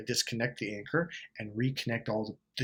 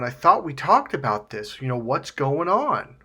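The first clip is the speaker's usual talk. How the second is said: exasperated questioning, louder and drawn out at the end; imitated frustration; 6 dB louder than usual. Frustrated partner confronting someone who broke an agreement, exasperated. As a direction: voice a fed-up partner's mild exasperation. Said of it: "get really frustrated going".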